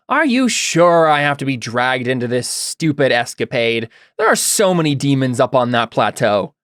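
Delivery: lightly voiced feminine character, mimicked; a hint of an aggrieved fallen angel. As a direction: speak as a put-upon woman, lightly acted. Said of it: "a feminine voice that sounds familiar".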